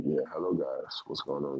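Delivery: very soft, quiet, silky, smooth, creepy serial-killer voice. Teasing Sal about growing out his beard, imitating Sal's smooth serial-killer voice. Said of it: "smooth like serial killer voice and shit".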